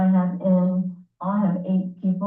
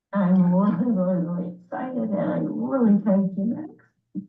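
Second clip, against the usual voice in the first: teary-eyed. Real, not acted. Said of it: "Sorry, I'm getting teary-eyed".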